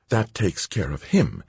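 a hint of a vicious snarl; feral snarling. A narrator's reading. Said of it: "she snarled".

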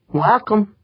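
put-on drunken slur on one word; slurred. A narrator's reading. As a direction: slur it out, tipsy. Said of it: "Pancho slurred".

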